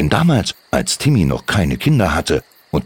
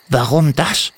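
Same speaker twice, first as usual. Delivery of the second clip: kobold Timmy; 9 semitones higher than usual. Acted. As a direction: gently contradict her as a tiny goblin. Timmy asks, puzzled.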